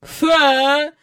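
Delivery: high, indignant outcry; disgusted exclamation. A narrator's reading. Visitor reacting to crying twins, disgusted. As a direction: exclaim with haughty distaste. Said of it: "вигукнула міс Ендрю".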